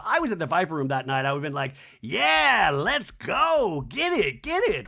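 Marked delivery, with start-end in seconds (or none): 2.0-4.9 higher, louder mock hype; rowdy cheering. Spectator egging on two feuding castmates, mock rowdy cheer. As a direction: egg on the fight like a spectator.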